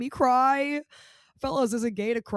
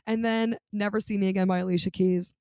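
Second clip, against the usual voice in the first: normal talking voice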